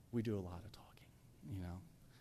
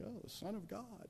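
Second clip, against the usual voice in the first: Peter; 8 semitones higher, 8 dB quieter than usual. Acted. Acts Peter answering eagerly.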